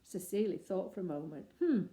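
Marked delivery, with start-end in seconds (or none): 1.6-1.8 gruff hmm. Acted. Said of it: "he said gruffly".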